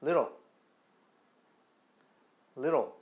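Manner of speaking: Little said as lero, the t a quick tap; little with the t turned into a light r-like tap; American flap t. Shown as a demonstration. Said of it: "두 번째 버전 다시 한번 제가 소리를 내드릴 테니까".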